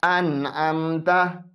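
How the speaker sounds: अन अमता with the न fully clear, no nasal hum; अन अमता, नून read openly without ghunna; clear izhar. Shown as a demonstration. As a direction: say अन अमता slowly, the नून plain and distinct. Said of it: "जैसा कि देखें".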